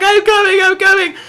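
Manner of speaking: hint of a flustered mother; hurried mom. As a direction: mom rushing, mildly frantic. Mom rushing home.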